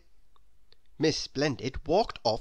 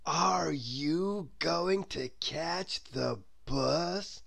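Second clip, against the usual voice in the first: dreamy Mister Daydream; slower than usual. Acted. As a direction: drift through the question as if half asleep. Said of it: "asked Mister Daydream".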